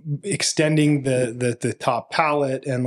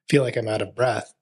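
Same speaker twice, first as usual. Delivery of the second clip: whisper. Real, not acted. Describing breathlessness.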